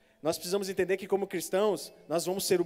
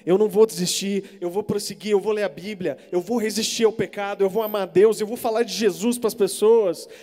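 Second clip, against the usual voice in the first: louder and louder, each vow rising; building preaching; 3 semitones higher, 8 dB louder than usual. Real, not acted. Preacher urging the congregation, building to a loud peak. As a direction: stack the vows up like a crescendo.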